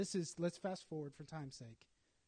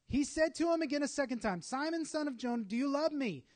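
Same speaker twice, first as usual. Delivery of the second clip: Jesus pressing the question, louder and higher; louder, higher asking; 7 semitones higher, 8 dB louder than usual. Acted. Jesus asking Peter a second time, louder and higher.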